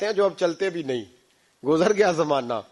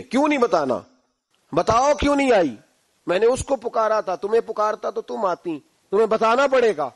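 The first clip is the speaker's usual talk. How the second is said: higher, insistent angry questioning; angry demand; 5 semitones higher, 3 dB louder than usual. Acted. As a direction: press the wife for an answer, annoyed. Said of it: "کو غصہ آیا". (غصے سے جواب مانگتا ہوا)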